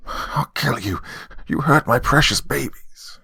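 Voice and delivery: put-on high, strained old-woman screech; enraged old lady's acted scream. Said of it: "screaming at me".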